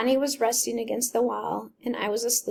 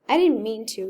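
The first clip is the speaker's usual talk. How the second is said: blurted out; 6 dB louder than usual. Acted. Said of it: "he finally blurted out".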